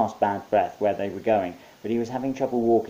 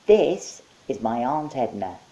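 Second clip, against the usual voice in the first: slow proud monkey reveal; high, slow monkey voice; 5 semitones higher, 5 dB louder, slower than usual. Acted. Monkey introducing his aunt to Mike. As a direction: present her grandly, slowly.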